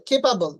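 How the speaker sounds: "খেপাবল" opening with aspirated kh; correct pronunciation. Shown as a demonstration. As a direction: puff of air starting "খেপাবল". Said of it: "উচ্চারণ হবে". ("খেপাবল" খ দিয়ে শুরু)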